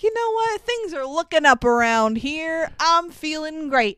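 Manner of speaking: put-on a kid who thinks his luck has turned; cheerful Kyle. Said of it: "he feels like".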